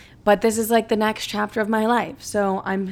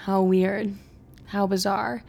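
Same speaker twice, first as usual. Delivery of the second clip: excited; 4 dB louder, slower than usual. Retold or imitated.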